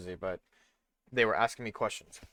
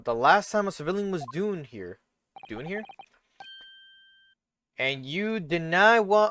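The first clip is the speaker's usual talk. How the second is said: put-on country accent; 5 semitones higher than usual. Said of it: "it's like a country accent".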